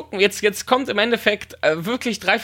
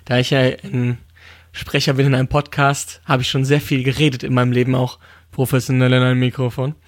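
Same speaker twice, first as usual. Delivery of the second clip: low put-on voice; a lightly voiced Marge Simpson; 8 semitones lower than usual. Shown as a demonstration. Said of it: "Das ist jetzt übrigens wieder meine normale Stimme, Marge Simpson".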